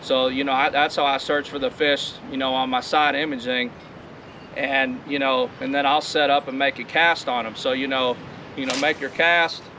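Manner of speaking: talking over wind noise; recorded outside in wind; windy outdoors. Real, not acted. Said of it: "it's awfully windy out here".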